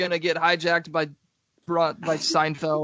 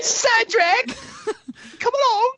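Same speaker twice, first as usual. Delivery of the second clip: bossy matron; slower than usual. Acted. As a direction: summon Cedric like a strict matron. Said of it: "his annoying teenage girlfriend to being his, like, matron".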